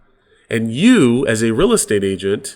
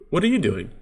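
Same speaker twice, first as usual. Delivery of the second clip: softer, higher-pitched "what are you doing"; soft questioning tone; 5 semitones higher, faster than usual. Shown as a demonstration. Speaking to your spouse or partner, soft questioning tone. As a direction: ask it lightly, pitch lifting mid-phrase. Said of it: "Just in that tone".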